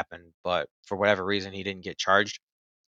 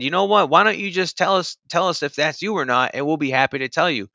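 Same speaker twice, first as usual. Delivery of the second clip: raised pitch, pressing for cooperation; retold insistent coaxing; 6 semitones higher than usual. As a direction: imitate an agent pushing for an answer. Agent presses him, retold.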